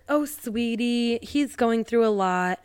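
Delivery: slow, mildly soothing mom; a hint of a placating mother; tepid soothing. Mom gives Sophie tepid advice, slow and soothing. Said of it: "very tepid advice".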